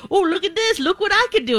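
high, eager self-imitation; retold eager enthusiasm. The speaker showing off instruments to sulking co-host, mock eager. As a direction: play up the eagerness, pitched high. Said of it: "and like".

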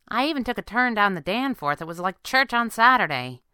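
a hint of a chatty sidekick; girl sidekick.

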